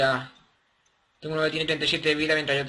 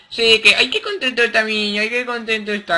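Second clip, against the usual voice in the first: higher sing-song cooing; baby talk; 6 semitones higher, 5 dB louder than usual. Acted. Player praising his happy little creature, higher baby talk. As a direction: gush at it like a proud parent.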